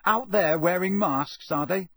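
Harry accusing Malfoy's parents in anger; angry accusation. Acted. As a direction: throw it at him hotly.

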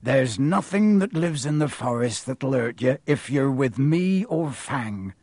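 lightly voiced rustic giant; reassuring groundskeeper. Groundskeeper calming a frightened boy, steady. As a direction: reassure in a broad country accent.

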